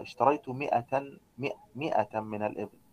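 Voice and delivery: مئة with short i and no long a; careful pronunciation. Shown as a demonstration. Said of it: "لكن انطقها".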